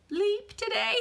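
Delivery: high, loud laughing yelp through the word; laughing outburst. Real, not acted. Trainer laughing at what the gym client said. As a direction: burst out laughing as you say it.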